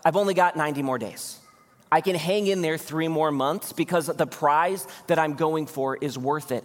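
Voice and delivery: a hint of an exhausted night-shift cop; preacher voicing a worn-out friend who keeps going; weary friend. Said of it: "He's like".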